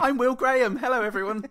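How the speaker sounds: cheery Will Graham voice. Pretend.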